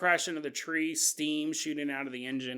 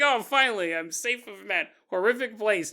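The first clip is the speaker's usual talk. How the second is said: relieved patient voice; 4 semitones higher, 3 dB louder than usual. Retold or imitated.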